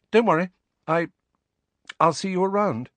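put-on high, embarrassed young girl; flustered girl voice. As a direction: hurry the words out, mortified. Cho voiced by narrator.

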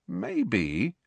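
drawn out and unsure; slow, hesitant. Acted. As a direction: let the word hang thoughtfully. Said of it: "said Ron slowly".

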